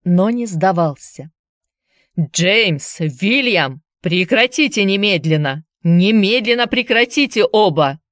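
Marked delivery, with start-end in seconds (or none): 2.1-8.0 raised voice, rising toward the end; a vicar calls sharply to stop a fight; shouting vicar. Acted. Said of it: "крикнул викарий".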